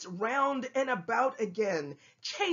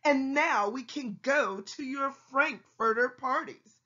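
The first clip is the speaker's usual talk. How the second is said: yelled taunt; 4 semitones higher than usual. Acted. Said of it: "Then they yelled at".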